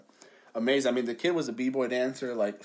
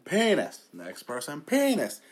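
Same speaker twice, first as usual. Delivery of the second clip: building toward a scream; 3 semitones higher, slower than usual. Shown as a demonstration. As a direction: climb up in pitch with every repeat. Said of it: "Until you're screaming it".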